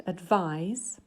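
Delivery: advise, with the second syllable vise stressed; rising, second syllable stressed. Shown as a demonstration. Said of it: "So this word".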